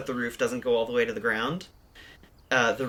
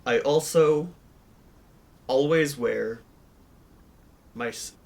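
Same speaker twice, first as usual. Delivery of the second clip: lightly voiced character, halting; a hint of a measured character voice. Player describes what B wears, lightly put-on character voice. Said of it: "his canon character voice".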